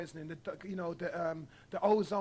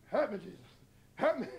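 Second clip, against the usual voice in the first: mock preacher plea. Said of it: "I'm just doing what they do".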